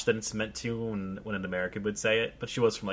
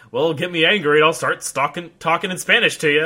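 loud, higher imitation of a hothead; mock angry boast; 6 semitones higher, 10 dB louder than usual. Imitating people who switch languages when angry, mock heated. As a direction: act out someone warning about their temper. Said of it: "it's like people that are like".

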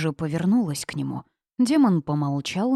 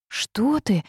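frightened cry; 6 semitones higher than usual. A narrator's reading. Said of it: "испуганно вскрикнула Улада".

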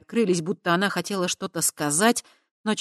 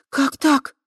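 high, loud startled gasp; 10 semitones higher, 7 dB louder than usual. Acted. Kava startled by the news, high and loud. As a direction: gasp in disbelief. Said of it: "ахнула Кава".

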